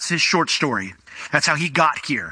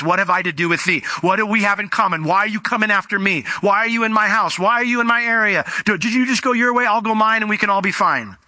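pitched-up, insistent mock complaint; demon's protest; 5 semitones higher than usual. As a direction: plead to be left alone, voice raised in pitch. Voicing the demon's complaint to Jesus.

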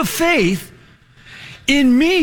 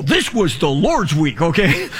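usual speaking voice

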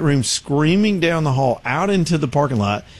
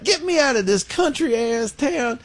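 slow, higher, exasperated grumble; reporter's real voice; 11 semitones higher, slower than usual. Retold or imitated. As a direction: drop the TV polish and complain. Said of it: "he goes right into his real voice".

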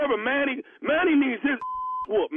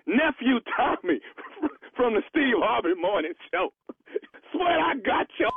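laughing through the words as the prank is revealed; can't hold back the laughter. Real, not acted. Prank caller cracking up as he reveals himself, laughing.

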